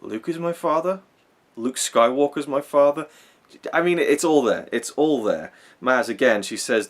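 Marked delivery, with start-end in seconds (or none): 0.0-3.1 Rey questioning. Retold or imitated. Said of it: "Is she saying".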